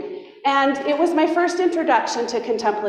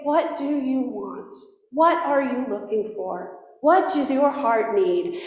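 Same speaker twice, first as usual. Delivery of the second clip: tender voice of Jesus; 3 semitones lower, 5 dB quieter than usual. Retold or imitated. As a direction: ask as if cradling the heart. Jesus asking her gently.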